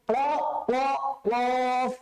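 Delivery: প্লফ built up as a rounded kw sound; heavy, rounded প্লফ in separate tries; k with w glide. Shown as a demonstration. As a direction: sound out প্ল twice, then the full প্লফ. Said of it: "কয়ের নিচে একটা ব হবে".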